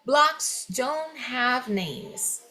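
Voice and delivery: very slow, clear reading of the example; slow classroom example sentence. Shown as a demonstration. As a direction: read the sentence slowly for students. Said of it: "olha o primeiro exemplo".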